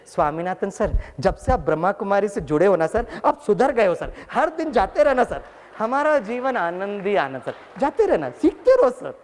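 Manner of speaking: rising, cheeky sing-song; teasing students. Retold or imitated. Students teasing their reformed teacher. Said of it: "घूर के देखते और कहते".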